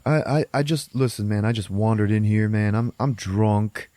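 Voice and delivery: lightly acted intruder talking his way out; hesitant, placating plea; nervous pleading.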